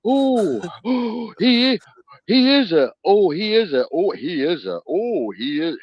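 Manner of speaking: high, loud gasping stammer; stammering alarm. Retold or imitated. Staff reading his file, gasping and stammering high. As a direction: splutter it as if too shocked to finish.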